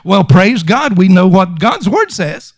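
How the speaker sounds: even, unmoved praise; same steady praise whatever the news; assured, matter-of-fact response. Acted. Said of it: "the praise God is the same praise God".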